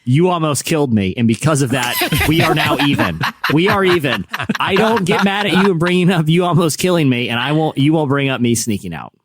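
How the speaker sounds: earnest retold ultimatum to mom; retold stern bargaining with mom; serious ultimatum. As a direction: lay down terms, mildly indignant. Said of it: "I'm saying this seriously".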